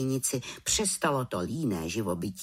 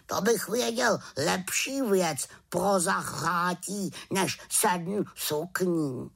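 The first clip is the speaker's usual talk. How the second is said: slow, high raven, dragging než sedm sukní; a sly bird with a better idea, drawn out; knowing raven; 6 semitones higher, slower than usual. Acted. Raven teases witch.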